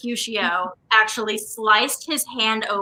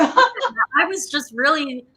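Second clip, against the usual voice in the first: laughing; 4 semitones higher, slower than usual. Real, not acted. Laughing after fear joke.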